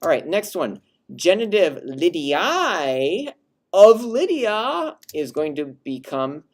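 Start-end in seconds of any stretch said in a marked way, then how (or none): 1.1-5.0 slow, high, lifted delivery; raised genitive pitch. Shown as a demonstration. Teacher contrasting genitive with relative form. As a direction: lift Lydiae up high. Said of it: "Hear how it's not only a lower pitch".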